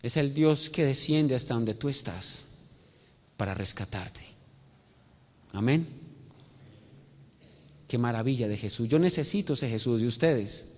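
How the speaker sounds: low, soft pastoral voice; subdued, earnest invitation; hushed altar appeal. Acted. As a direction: bring it down to a quiet, personal plea.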